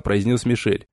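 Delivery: plain reading voice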